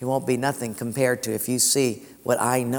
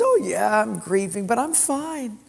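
a touch higher, cheerful widow; light widow voice; 6 semitones higher than usual. Retold or imitated. Lightly voiced widow reassuring the pastor, brushing it off. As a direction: play the widow brushing off his pity. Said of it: "She says".

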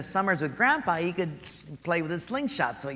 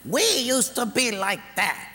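breathy hushed name, then higher, slow wistful wife; wife's voice; 5 semitones higher, slower than usual. Retold or imitated. Wife nudging her husband, wistful and slow. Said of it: "the wife says".

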